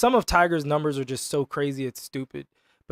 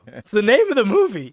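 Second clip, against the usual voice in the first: insistent protest; 4 semitones higher, 3 dB louder than usual. Real, not acted. Repeats protest over teased innuendo.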